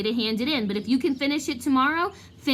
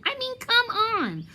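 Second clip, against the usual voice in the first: scoffing Lockhart; 11 semitones higher than usual. Acted. Lockhart scoffing at ugly heroes.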